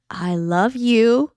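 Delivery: slow, deliberate retold reassurance; imitated patient reassurance. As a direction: spell it out slowly, humoring her. Husband patiently answering her outburst.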